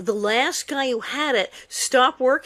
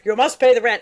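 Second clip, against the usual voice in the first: mustache twirling villain; 5 dB louder than usual. Retold or imitated. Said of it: "the old sketch from the melodrama, complete with mustache".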